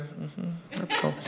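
soft, slow, bored mumble; soft uninterested toddler voice; bored baby. Retold or imitated. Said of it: "she's just the whole time just like".

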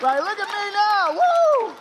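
high, loud, drawn-out gloating cheer; exuberant whoop. Acted. Preacher voicing dad showing off his timeshare life, exuberant. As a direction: crow it out and end on a whoop.

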